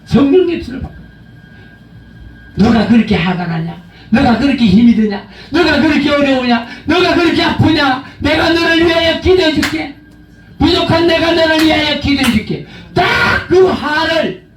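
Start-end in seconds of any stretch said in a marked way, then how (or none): 2.6-12.7 mock tender prayer. Shown as a demonstration. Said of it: "대적기도, 기도로".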